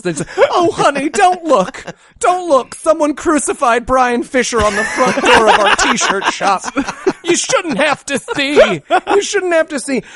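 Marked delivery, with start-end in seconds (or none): 0.5-6.6 higher, hammed-up soothing horror; a higher pitched, overwrought mother; mock melodramatic mother. 7.2-8.8 higher and slow, rising plea; drawn-out overacted sorrow; slow hammed-up mother, ending up; mock melodramatic mother, slow. 9.1-10.0 higher, falling final sob line; hammed-up mother dropping to a sigh; mock melodramatic mother, falling.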